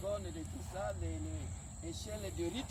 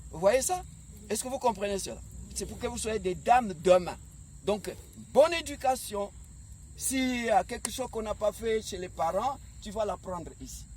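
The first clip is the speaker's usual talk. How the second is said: roaring rallying speech; 2 semitones higher, 5 dB louder than usual. Acted. Coach exhorts young players.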